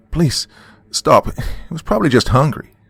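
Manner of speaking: high, loud pleading scream. Acted. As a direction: scream at the shooter to stop. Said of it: "screamed Dawn".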